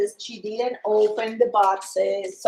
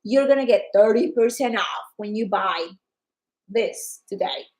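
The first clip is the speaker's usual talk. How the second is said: mock company announcement; 5 dB louder than usual. Company announcing a discount, in excited promo voice. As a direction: hype it up like a sales promo.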